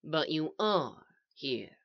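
soft, slow, level reply; even. A narrator's reading. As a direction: counter quietly and evenly. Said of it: "the voice said evenly".

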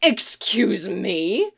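slow, drawn-out affront; offended. Acted. Roach, ignored by Geralt, is slowly and openly offended. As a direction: stretch it out, insulted. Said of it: "she whinnied".

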